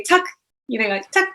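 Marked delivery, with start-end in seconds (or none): 0.0-0.2 TUCK as a short Scandinavian "tak"; Scandinavian thank-you. Shown as a demonstration. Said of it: "for thank you, they say". 1.1-1.3 TUCK as a short Scandinavian "tak"; Scandinavian thank-you. Shown as a demonstration. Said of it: "for thank you, they say".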